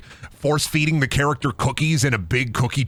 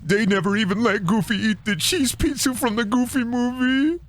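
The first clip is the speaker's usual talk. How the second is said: high, cartoonish complaint; high put-on whine; 8 semitones higher than usual. Streamer griping about a cartoon movie, high mock whine. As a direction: pitch it up and keep climbing.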